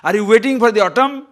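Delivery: loud, high line broken by laughter; laughing punchline. Acted. Punchline shouted through laughter.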